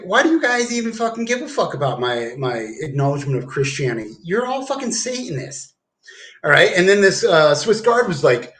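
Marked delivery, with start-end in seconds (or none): 0.0-5.7 indignant retort. Retold or imitated. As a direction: fire it back, pitched up. Arguing with the military.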